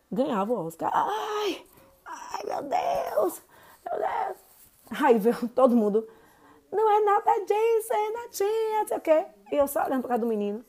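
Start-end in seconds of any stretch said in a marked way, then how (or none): 0.9-4.4 high, hammed-up fake wailing; mock a kid crying over nothing, pitched way up; fake child crying. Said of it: "o menino ganhava o Oscar". 6.7-9.3 high, mock childish protest; kids protesting. Kids all excuse the boy.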